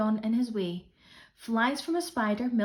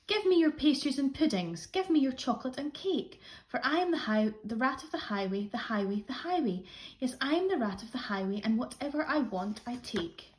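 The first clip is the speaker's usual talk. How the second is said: rat's demand; 3 semitones higher than usual. Acted. Rat's demanding song-like refrain.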